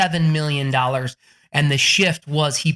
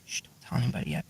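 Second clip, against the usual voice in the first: low, quick, very soft aside; hushed secrecy; 7 semitones lower, 11 dB quieter, faster than usual. Retold or imitated. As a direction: shush it like a secret. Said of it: "He didn't tell anybody about it".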